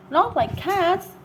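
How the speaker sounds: high, slow, outraged squeal; a mouse shrieking in indignation; shrill passionate cry. A narrator's reading. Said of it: "in a shrill, passionate voice".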